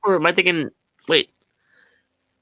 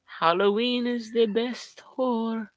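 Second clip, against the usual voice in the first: imitating Brad with an accent; 4 semitones higher than usual. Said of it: "why did I just give Brad an accent".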